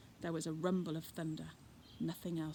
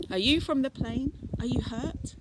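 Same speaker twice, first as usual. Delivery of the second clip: louder, rising questions; concerned call; 5 semitones higher, 9 dB louder than usual. Acted. Fred calling to the hidden children, loud worried questions.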